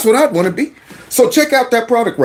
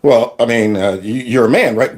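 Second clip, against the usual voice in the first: doubtful coach; 7 semitones lower than usual. Retold or imitated.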